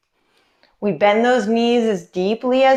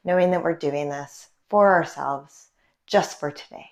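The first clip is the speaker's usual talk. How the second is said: calm, gently lowered check-in voice; guided meditation; 4 semitones lower than usual. Real, not acted. Leads a mindful check-in.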